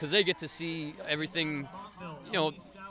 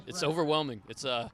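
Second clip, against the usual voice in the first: worn, hoarse from shouting; 2 semitones higher than usual. Real, not acted. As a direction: voice nearly gone after a match. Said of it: "losing my voice".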